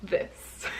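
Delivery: hammed-up American accent as Wonder Woman; cheesy fake American accent, playing Wonder Woman; terrible American accent. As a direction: brag in a mock American superhero accent. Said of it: "Sorry about that terrible accent".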